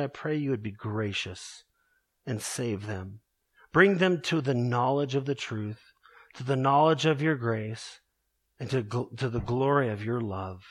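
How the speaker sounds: earnest closing prayer to the congregation; heartfelt pulpit prayer, humble and steady; pastoral prayer. Acted. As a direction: pray it sincerely and steadily.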